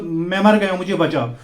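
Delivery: retold cry for help. Son retelling his father's cry from the fire, loud mock panic. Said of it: "تو اس کو آواز نکلی".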